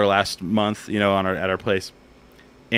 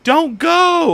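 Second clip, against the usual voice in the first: much higher, louder crowd shout; imitated crowd yell; 8 dB louder than usual. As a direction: cry out like the whole crowd begging. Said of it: "people started yelling".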